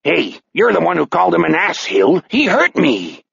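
slightly high, complaining villain; a hint of wounded tough guy; aggrieved fisherman. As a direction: protest to your other self. Own voice answers the accented one.

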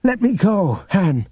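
high-pitched, urgent plea; pleading Luke. A narrator's reading. Figure voice of Luke.

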